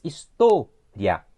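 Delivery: história said slowly with the tó clearly stressed; slow model pronunciation of história. Shown as a demonstration. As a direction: stretch out história so the penultimate syllable stands out. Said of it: "es história".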